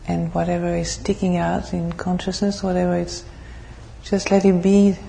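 measured, even meditation guidance with long pauses; guided meditation. Real, not acted. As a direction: lead the group calmly into stillness, phrase by phrase.

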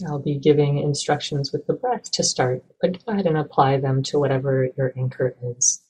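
calm, even meditation guidance with long pauses; measured, unhurried meditation teacher; guided meditation. Acted. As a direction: gently guide listeners into stillness, leaving space between phrases.

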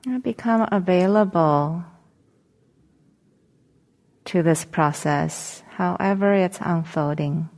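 calm meditation guidance with long pauses; guided meditation. Acted. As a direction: gently guide them into settling, leaving long silences between phrases.

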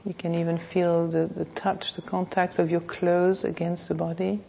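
measured meditation voice with long pauses; guided meditation. Real, not acted. Teacher leading a class to notice the body, guided meditation. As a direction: guide them unhurriedly, phrase by phrase.

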